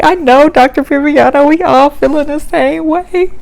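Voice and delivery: mock weepy. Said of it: "I'm like".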